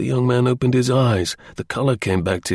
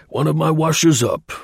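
higher, breezy explanation; cheerful; 6 semitones higher, 3 dB louder than usual. A narrator's reading. Cray explaining how he knew Saunderson, cheerful. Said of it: "explained with unabated cheerfulness".

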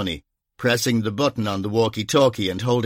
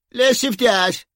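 shouted; 12 semitones higher, 4 dB louder, slower than usual. Acted. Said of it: "shouted Bunny".

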